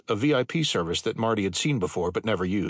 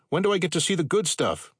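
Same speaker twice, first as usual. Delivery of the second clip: shouting over engines; 8 semitones higher than usual. A narrator's reading. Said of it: "Marty yelled over the growling of jet engines".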